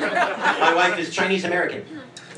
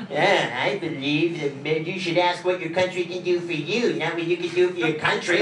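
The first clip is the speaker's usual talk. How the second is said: mocking dumb voice; 3 semitones lower, 3 dB quieter than usual. Showing mom the silly voice ruins any speech, mocking. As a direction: make a noble line sound stupid. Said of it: "It all sounds stupid with that voice".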